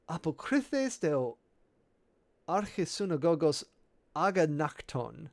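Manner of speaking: Apokrythes, Archisynagogos, Aganakton said slowly, leaning on the repeated sounds; playing up the assonance. Shown as a demonstration. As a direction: savour the matching opening sounds. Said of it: "fun assonance for you there".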